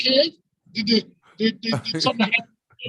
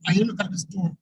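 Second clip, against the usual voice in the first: muffled; 3 semitones lower than usual. Real, not acted. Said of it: "You sound muffled, bro, like you're under the water".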